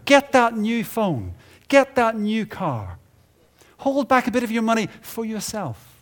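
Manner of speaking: hammed-up voice of the culture; mock sales pitch. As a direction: push the product like a salesman.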